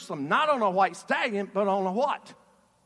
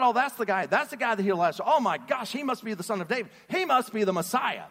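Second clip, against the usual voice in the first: eager, fast, loud crowd chatter; the crowd buzzing that he is the one; excited crowd; 3 semitones higher, 4 dB louder than usual. Retold or imitated. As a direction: gasp it like the crowd just realized. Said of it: "the crowd".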